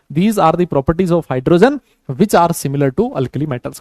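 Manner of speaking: very slow, word by word for notes; dictating at writing pace; slow dictation. Shown as a demonstration. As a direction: spell it out slowly so they can write. Teacher dictating notes in English.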